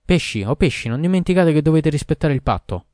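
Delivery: a huge servant calling loudly and unpleasantly to the fish. A narrator's reading. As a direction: boom it out, clear but nasty. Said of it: "con voce forte e chiara, ma in tono sgradevole".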